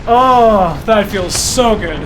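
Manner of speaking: relieved. Real, not acted. Relief after the record.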